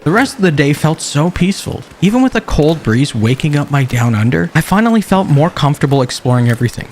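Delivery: calm documentary-style narration; measured survival-diary voiceover; story narration. A narrator's reading. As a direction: narrate the journey like a survival log.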